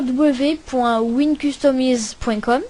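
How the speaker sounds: English web address in a French accent; real French accent on English words. Real, not acted. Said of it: "Désolé pour mon accent anglais".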